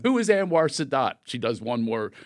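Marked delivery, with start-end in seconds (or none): 0.0-1.1 mom answering Jeopardy. Retold or imitated. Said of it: "I hear".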